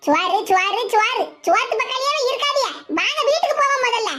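mildly irritated urging; angry. Acted. Hurrying the group home from the feast, mildly angry. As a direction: cut them off, a touch cross. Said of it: "இப்படி கோவமா பேசுத".

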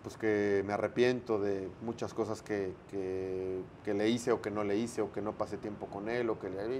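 hint of tearful regret. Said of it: "Si tuvieras a tu hijo aquí enfrente".

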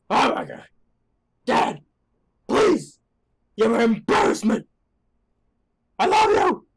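put-on high, loud teen wail at dad; hammed-up teenage embarrassment; mock embarrassed outburst. Mae yelling at her dad in mock embarrassment.

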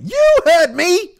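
high, slow, loud shrieked line in a bad put-on voice; Lawanda Page impression. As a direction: belt it out like a sitcom matriarch, badly. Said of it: "That was my Lawanda Page impression".

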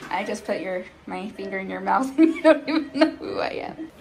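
laughing. Real, not acted. Mom laughing at drugged daughter.

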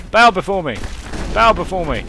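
hammed-up dark lord decree. Commanding enemies to bow.

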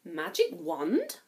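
slow, breathless question; amazed at the magic; gasping in wonder. Acted. Cinderella gasps at the fairy godmother, slowly. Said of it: "gasped Cinderella".

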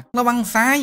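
high loud call, ระวังซ้าย rising at the end; kid cheering. Acted. Kid cheers the fighting hero, high rising shout. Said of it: "ร้องเชียร์".

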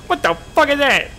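very high, loud disbelief; shocked yell. Real, not acted. Gamer baffled by what just blew up, shocked high yell. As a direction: squawk it in shock.

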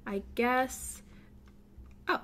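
ordinary talk

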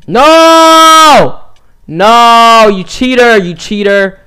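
screaming high at a cheater; long, high full-volume protest at losing; outraged yell. Real, not acted. Yells at being beaten in game.

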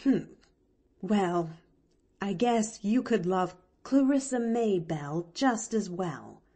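grudging, understated comeback; lightly huffy reply; mild retort. Acted. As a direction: answer back with a touch of grumble. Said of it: "retorted Nancy".

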